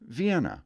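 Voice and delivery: Vienna as vee-EN-uh; the Austrian capital's Vienna; Austria's Vienna; standard Vienna. Shown as a demonstration. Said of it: "take a swing at the capital".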